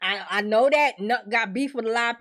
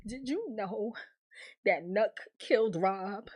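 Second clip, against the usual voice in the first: breathy secret whisper, much softer; imitated whisper; 3 semitones lower, 8 dB quieter than usual. Tiffany telling Bakari a secret, whispering. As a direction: let it out as a hushed secret.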